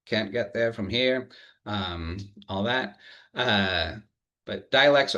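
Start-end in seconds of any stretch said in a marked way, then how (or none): 0.0-1.3 lightly put-on Eastern New England accent; a quick touch of Eastern New England dialect. Shown as a demonstration. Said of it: "shout out to Eastern New England English".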